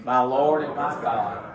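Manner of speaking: slow, reverent, said together; slow reverent repeat. Shown as a demonstration. Pastor leading congregation in slow reverent response. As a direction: lead it slowly as a confession. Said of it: "Say it with me".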